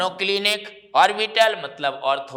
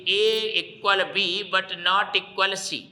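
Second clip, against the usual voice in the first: slow, deliberate spelling out of the rule; slow dictation; much slower than usual. Shown as a demonstration. Teacher telling students what to write, slowly. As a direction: dictate it word by word. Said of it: "गोनल में क्या करना है भैया".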